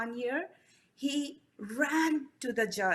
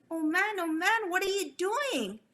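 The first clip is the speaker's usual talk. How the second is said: screamed; 7 semitones higher than usual. A narrator's reading. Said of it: "Abu Qasim screamed".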